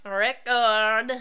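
put-on Record said in a hammy French accent; bad French accent. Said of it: "bad French accent".

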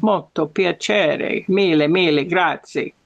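slow, drawn-out Italian greeting; American doing an Italian accent; put-on Italian accent. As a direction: greet a bishop in imitated Italian. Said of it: "can you do that accent again".

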